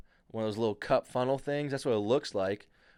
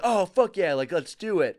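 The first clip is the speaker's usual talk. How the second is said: hyped rowers; 6 semitones higher, 4 dB louder than usual. Retold or imitated. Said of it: "everyone would be like".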